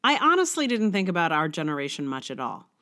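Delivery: essay reading. Acted. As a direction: read the essay out like a polished blog post. Reads her blog essay aloud.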